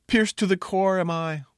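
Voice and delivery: high, loud theatrical agony; mock mortally wounded. Fool pretends the princess's words pierced him, melodramatic. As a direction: clutch your chest and declaim it. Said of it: "I grabbed my chest".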